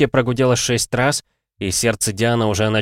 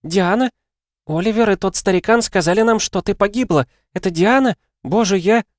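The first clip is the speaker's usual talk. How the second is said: high, excited woman's voice; breathless friend overwhelmed with news; flustered Helen; 11 semitones higher, 3 dB louder than usual. Acted. Helen on the phone to Diana, high and flustered.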